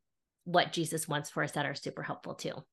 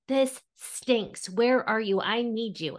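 raised, emphatic mock prayer; blunt pleading; 3 semitones higher, 3 dB louder, slower than usual. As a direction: complain frankly to God, mildly acted. Models a blunt prayer to God.

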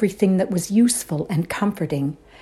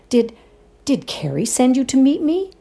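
higher, stammered fright; frightened, stammering; 7 semitones higher, 3 dB louder than usual. A narrator's reading. Woman asking if Carrie sent him, nervously stammering. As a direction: stumble over it, a touch scared. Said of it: "I gasped".

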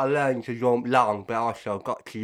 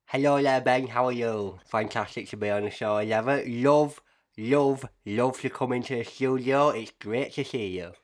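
talking through new braces. Real, not acted. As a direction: speak around a mouthful of braces. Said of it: "you've just had braces fitted".

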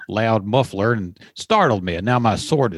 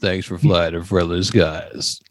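lower, slow, drawn-out sign-off; pilot sign-off; 6 semitones lower, slower than usual. Pretend. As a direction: stretch it out like a lazy captain. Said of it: "this is your pilot".

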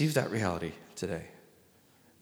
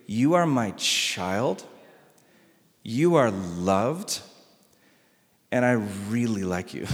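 tender voice of the Father; 6 semitones lower, slower than usual. Acted. Pastor voicing God the Father tenderly over the newly baptized. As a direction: speak it like a father blessing his child. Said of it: "God the Father shouts over you".

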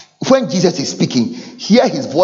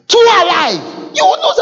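laughing cry; 3 dB louder than usual. Acted. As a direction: laugh it out mockingly. Repeated refrain with laugh.

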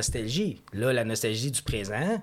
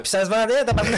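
laughing loudly through the words, higher; a real laugh breaking through the punchline; 10 semitones higher, 8 dB louder, faster than usual. Real, not acted. Laughing at a joke about selling.

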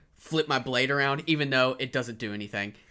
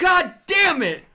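high, loud, slow furious yell; high loud slow angry curse; furious shout; 11 dB louder, slower than usual. Acted. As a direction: drag out the curse in rage. Raging barbarian.

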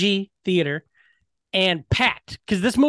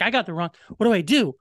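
mock freaking out; 4 semitones higher, much faster than usual. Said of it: "she starts freaking out".

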